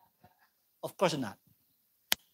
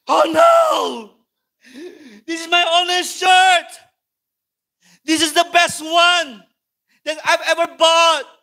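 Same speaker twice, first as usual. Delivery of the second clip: high, loud and slow lament; a hammed-up cry of dismay; panicked wail; 9 semitones higher, 10 dB louder, slower than usual. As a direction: mourn the ruined shirt out loud. Parent finds shirt burnt.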